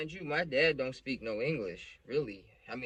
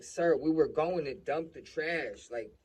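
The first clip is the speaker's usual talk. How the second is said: louder, higher pleading explanation, acted out; scared confession; 5 semitones higher, 6 dB louder than usual. Son confesses the dumping to the cop, scared. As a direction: re-enact a scared kid owning up. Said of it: "I'm, like, hella scared".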